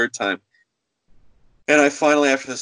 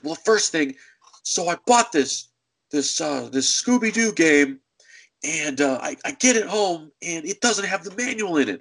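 lightly voiced caller, pitched up; a hint of a griping customer, higher; complaining customer; 4 semitones higher than usual. Woman listing faults to the clerk, mock complaining.

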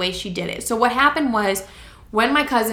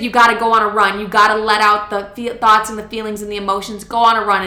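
louder, pushy mom voice; insistent mom; 5 dB louder than usual. Retold or imitated. Mom pushing daughter to run, loud and insistent. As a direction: urge her firmly to go run.

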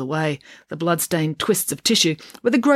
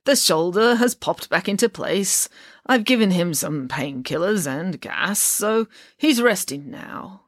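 lightly voiced slow old doctor; slow, halting reassurance from an old doctor; elderly doctor; 2 semitones higher, slower than usual. Ancient doctor updating parents on their son, slow and halting.

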